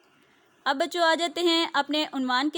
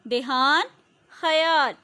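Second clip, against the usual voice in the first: देहान with a rising tune, then ख्याल with a falling tune; word and meaning; 3 dB louder, slower than usual. Shown as a demonstration. Teacher pairing a word with its meaning, rising then falling. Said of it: "देहान का मायने होता है ख्याल".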